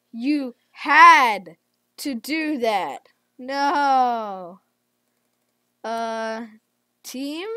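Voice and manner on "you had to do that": indignant. Real, not acted. Repeats accusation.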